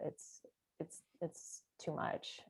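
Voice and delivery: slow, breathless whisper of "too much". Retold or imitated. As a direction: whisper it as if overwhelmed. Eigen gedachte herhaald, stiller.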